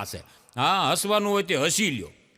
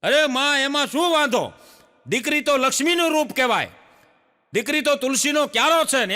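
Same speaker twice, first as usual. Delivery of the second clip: raised, louder coaxing neighbour; consoling neighbour women; 6 semitones higher, 3 dB louder than usual. Acted. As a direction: comfort the granny loudly. Neighbour women consoling old woman. (ઊંચા અવાજે આશ્વાસન)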